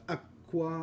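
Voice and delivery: acqua with stress on the first syllable, a-cqua; Italian stress. Shown as a demonstration. Streamer showing chat where Italian puts the accent. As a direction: lean on the a of acqua. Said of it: "you put the tonic accent".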